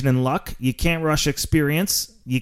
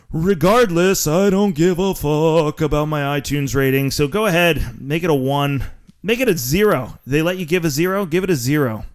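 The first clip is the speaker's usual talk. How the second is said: defiant; 4 dB louder than usual. Real, not acted. Defiant rant about ratings.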